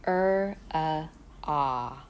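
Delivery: er, uh, ah held out loud; vowel sounds demo. Shown as a demonstration. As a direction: model each vowel clearly for the learner. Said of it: "Drop the tongue".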